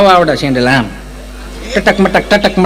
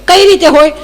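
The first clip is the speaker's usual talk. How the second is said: a higher, mincing educated lady; prim city lady; 10 semitones higher, 3 dB louder than usual. Retold or imitated. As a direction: mimic a fussy city woman picking each word. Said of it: "Gujarati ચીપી ચીપીને બોલે". (શહેરી બેનની ચીપી ચીપીને બોલતી નકલ)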